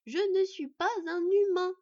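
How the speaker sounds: «Je ne suis pas un humain» slow, loud and high, syllable by syllable; every syllable separated. Acted. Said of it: "en détachant bien toutes les syllabes".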